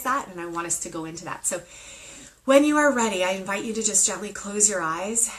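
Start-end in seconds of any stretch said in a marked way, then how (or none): 2.4-5.3 starting a guided meditation, gentle and inviting; meditation guide. Acted. Host opening a live meditation for viewers, gently inviting. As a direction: ease listeners into closing their eyes. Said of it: "we're gonna go into meditation now".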